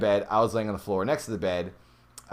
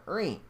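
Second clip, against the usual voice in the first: creak imitation; 9 semitones higher, 4 dB quieter than usual. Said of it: "I made a creak".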